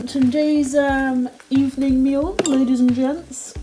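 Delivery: loud, high showman announcement; announcer voice. Pretend. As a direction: present it like a gameshow host. Mock announcing the meal.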